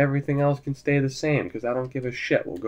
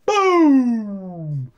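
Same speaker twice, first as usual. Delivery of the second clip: triumphant shout; 7 semitones higher than usual. Real, not acted. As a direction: explode with the winning goal. Goal scored in overtime.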